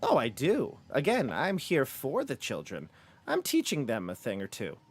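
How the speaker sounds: swooping, sing-song villainess; mock-benevolent, pitch rising and dropping in big curves; self-righteous mistress of children. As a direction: play a falsely kindly matron. Same character answers the party.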